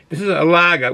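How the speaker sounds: Boston "lager" with the final r dropped; light Boston accent on "lager". Shown as a demonstration. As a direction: say "lager" as "lah-guh", Boston style. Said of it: "with the Boston accent".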